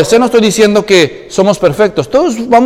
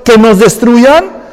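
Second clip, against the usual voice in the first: raised, pleading lament to the Lord; Joshua lamenting; 3 semitones higher, 4 dB louder than usual. Retold or imitated. Preacher voicing Joshua pleading with God, raised lament. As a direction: cry out to God like a defeated leader.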